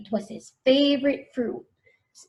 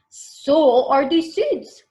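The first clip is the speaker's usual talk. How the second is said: slow, louder playful reply; wry farmer; 4 semitones higher, 6 dB louder, much slower than usual. Acted. Farmer answers thirsty Connor, playful and slow. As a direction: tease the boy gently. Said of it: "the farmer said".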